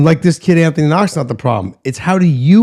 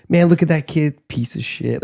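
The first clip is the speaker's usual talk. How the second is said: heckler muttering; 2 semitones lower, 5 dB quieter than usual. Pretend. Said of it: "basically right over your ear".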